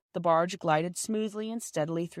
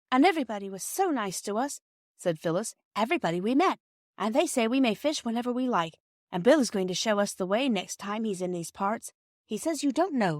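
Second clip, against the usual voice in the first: eager chatter; 4 semitones higher than usual. Acted. Phyllis chatters happily.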